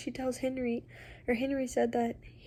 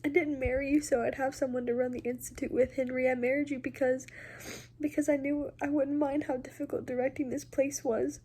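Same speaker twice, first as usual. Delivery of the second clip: Charlotte's confession; 4 semitones higher than usual. Acted. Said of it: "she said".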